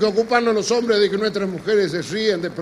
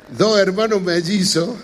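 loud start; 7 dB louder than usual. Shown as a demonstration.

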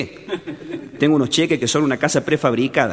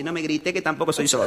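quiet retort; 6 dB quieter than usual. Retold or imitated. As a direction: answer him softly, as if keeping things down. Fake mute answers, asks not shouting.

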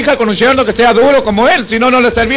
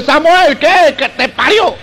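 shouting across the night; 4 semitones higher, much slower than usual. Acted. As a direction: yell it across to the enemy camp. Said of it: "gritaba el de los árabes".

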